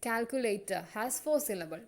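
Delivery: slow, deliberate syllable-by-syllable reading; syllable counting. Shown as a demonstration. Teacher counting syllables for the class, slowly. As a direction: spell each word out in beats. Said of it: "Three syllable".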